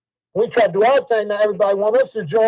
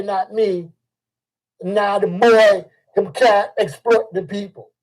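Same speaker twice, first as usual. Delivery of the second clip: mock Jamaican accent. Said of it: "I change up the way I'ma talk".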